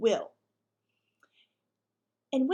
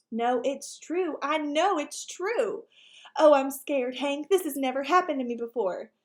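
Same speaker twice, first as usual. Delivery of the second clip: scared; 2 semitones higher, 5 dB louder than usual. Acted. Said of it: "shivering all over".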